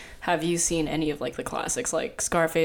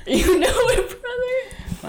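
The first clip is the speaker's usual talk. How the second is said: bro voice; 4 dB louder, slower than usual. Pretend. Playing chewing-tobacco good old boys.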